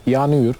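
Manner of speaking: "Yanıyor" with the last o as u; Adana pronunciation. Shown as a demonstration. Guest repeating his hometown example, "Yanıyor" in Adana pronunciation. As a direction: say "Yanıyor" the Adana way, ending in -yur. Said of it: "Oranın şivesi de güzeldir".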